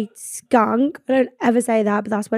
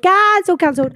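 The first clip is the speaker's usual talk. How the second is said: shocked repeat; 7 semitones higher than usual. Retold or imitated. Friend's shocked text.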